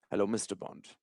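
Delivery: low, very soft Bond villain greeting. Acted. Streamer mocks coach as film baddie, Bond villain voice. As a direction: purr it low like a movie villain. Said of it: "They all have that sort of accent".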